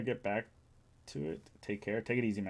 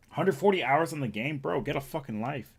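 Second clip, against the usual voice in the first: mock scolding; 4 dB louder than usual. Mock rant, then "Just kidding.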